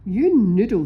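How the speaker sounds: loud parrot squawk. A narrator's reading. Polly the parrot scolds the pirate, loud squawk. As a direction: screech it like a cross parrot. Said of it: "squawked Polly".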